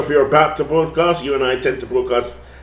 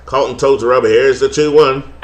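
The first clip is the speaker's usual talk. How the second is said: light put-on twang on the game call; twangy play-by-play; 3 semitones higher than usual. Broadcaster back to his twang for the play-by-play. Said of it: "I twang it again".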